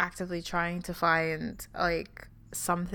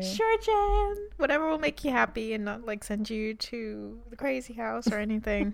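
mock placating; 3 semitones higher than usual. Host humours an imagined conspiracy theorist, mock placating.

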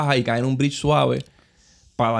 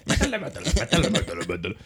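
flat mechanical robot voice, fading softer; 4 semitones lower, 6 dB quieter, faster than usual. Retold or imitated. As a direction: chant it like a robot. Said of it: "Con voz de robot".

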